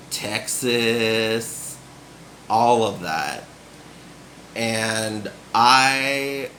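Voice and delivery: slow, drawn-out hint of a Southern accent. Shown as a demonstration. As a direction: slip into a Survivor contestant's Southern drawl. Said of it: "I start talking like they do on Survivor".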